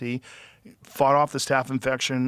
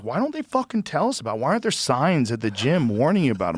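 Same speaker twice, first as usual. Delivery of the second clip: half-playful imitation of fury; mock outraged rant; 3 semitones higher than usual. Retelling his friend's complaint, mock outrage.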